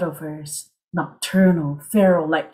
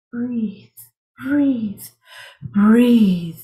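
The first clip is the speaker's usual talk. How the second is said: building breathe; 2 semitones higher, 3 dB louder, much slower than usual. Acted. Rising breathless climax.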